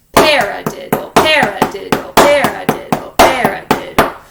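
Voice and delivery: first syllable of paradiddle stressed, falling each time; accented paradiddle. Shown as a demonstration. Teacher chanting with accent on first hit. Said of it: "think of that accent".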